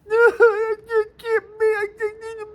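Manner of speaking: high cackling laugh; shrieking laugh. Real, not acted. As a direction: burst into shrill laughter. Laughing at farmers' vote.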